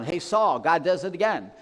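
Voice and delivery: mock shout across a gap; yelling down. David yells down from the cliff at Saul, loud call. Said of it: "David yells down".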